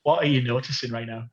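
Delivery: calm grounding exercise, lightly played; mock therapist check-in. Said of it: "is this your therapist voice?".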